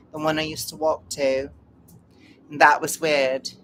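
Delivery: mock-British storytelling; British accent. Shown as a demonstration. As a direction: tell it in a playful British accent. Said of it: "You have to say it Britishy".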